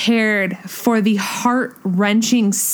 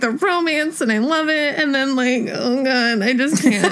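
gushing fangirl; 2 semitones higher than usual. Retold or imitated. Gushing over movie romance.

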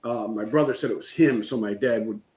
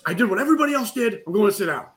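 high-pitched indignant protest; mock anger; 8 semitones higher, 4 dB louder, faster than usual. Telling the group he is sitting out, mock anger. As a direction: protest in a raised pitch, playing angry. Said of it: "I'm trying to resist going to anger".

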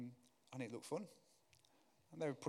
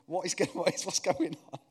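higher, louder, half-laughing mock panic; 6 semitones higher, 10 dB louder than usual. Small boy stuck in the gate, in hammed-up panic. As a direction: play the six-year-old losing it, laughing through it.

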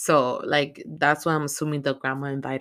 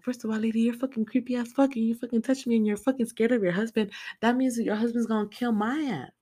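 high outraged rant; 7 semitones higher than usual. Retold or imitated. Imagined rant at grandma.

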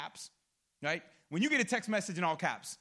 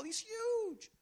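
soaring high, softer exclamation; awed emphasis; 12 semitones higher, 5 dB quieter than usual. Real, not acted. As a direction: stretch it up high in amazement. Preacher marvels at God's size.

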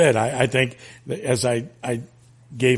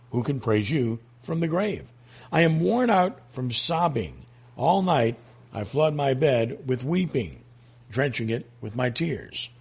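solemn, measured psalm reading; prayerful recitation with weighted pauses; scripture reading. Acted. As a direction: read the psalm out deliberately, phrase by phrase. Reads Psalm aloud.

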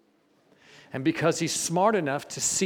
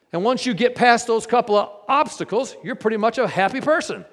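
rising preacher; 6 semitones higher, 6 dB louder than usual. Real, not acted. Preacher rising against other churches.

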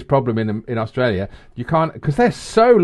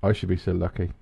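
impression of a singer; 7 semitones lower, 8 dB quieter than usual. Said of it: "do an impression of a singer".

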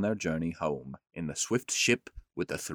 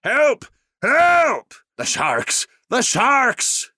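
high, loud panicked shrieks; terrified crowd yelling about sharks; crying out in fear; 9 semitones higher, 8 dB louder than usual. Acted. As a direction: scream for help as the sharks close in. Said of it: "they all cried out in great fear".

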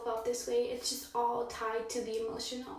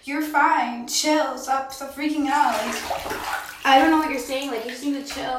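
imitated boyfriend; 11 dB louder than usual. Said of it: "and he had said".

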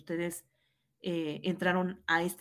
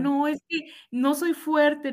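retold tearful words; 7 semitones higher, 5 dB louder, slower than usual. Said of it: "pero yo estaba llorando así, inconsolable".

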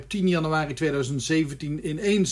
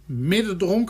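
tasting with beer in mouth; slower than usual. Real, not acted. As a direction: talk with a sip still in mouth. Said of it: "terwijl ik hem in mijn mond heb".

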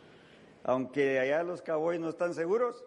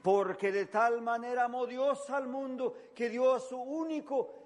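much higher and slow on único hijo; soaring preaching; 11 semitones higher than usual. Shown as a demonstration. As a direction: stretch and lift the end. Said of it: "repite el versículo, sube". (predicación que se eleva lentamente)

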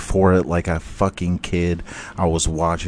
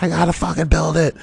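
insistent; 9 semitones higher, faster than usual. Retold or imitated. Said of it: "He's like".

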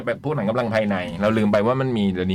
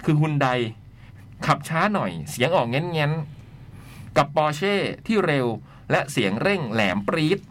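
measured, articulated read-aloud; letter reading; 2 semitones higher than usual. Acted. Host reading a listener's letter on air, letter-reading voice. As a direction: read it out in phrases with pauses.

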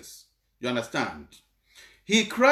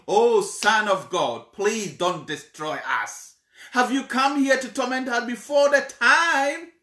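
retold begging; 5 semitones higher, 4 dB louder than usual. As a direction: plead as the demons, rising at the end. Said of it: "the demons were begging Jesus".

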